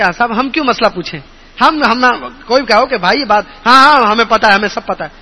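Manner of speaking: dismissive, a hint of pride, fast at first; mock the proud old man brushing off advice; know-it-all brush-off. Preacher mimics proud man who refuses to ask. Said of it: "کہتے ہیں کہ".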